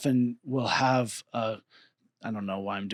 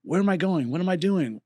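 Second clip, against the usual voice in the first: anxious questions; 6 semitones higher than usual. Retold or imitated. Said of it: "is this".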